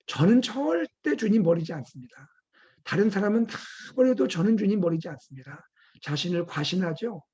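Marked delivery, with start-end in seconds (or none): 0.1-5.7 mildly raised, insistent vow; acted-out cocksure promise; self-assured boasting. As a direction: lean hard on the absolute words. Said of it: "스스로 장담합니다".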